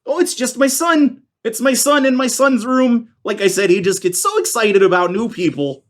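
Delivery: high, sweet small-town lady voice; lightly laughing hostess greeting strangers; small-town woman. Acted.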